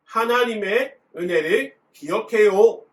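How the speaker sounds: loud, high-pitched reading-aloud voice.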